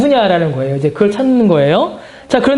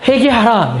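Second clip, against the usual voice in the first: raised preaching call; calling out repent; 3 semitones higher, slower than usual. Acted. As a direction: cry it out to the crowd. Wisdom crying out to sinners.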